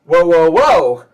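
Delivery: put-on loud, slow kid challenge; challenging girl. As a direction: halt strangers slowly and boldly. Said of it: "and says".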